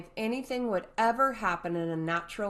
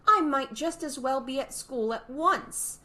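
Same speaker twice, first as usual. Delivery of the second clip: exasperated Alice; 7 semitones higher, 4 dB louder than usual. A narrator's reading. Alice's thought.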